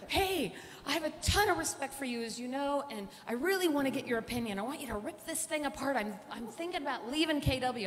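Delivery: lightly voiced eager salesman; excited friend. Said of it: "He's like".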